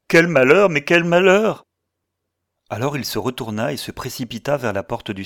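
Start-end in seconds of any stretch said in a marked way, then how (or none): 0.1-1.6 loud, high wail of dismay; anguished cry. A narrator's reading. Man lamenting his lost chance, anguished cry. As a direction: cry out in despair, repeating it. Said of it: "cria Trenherne".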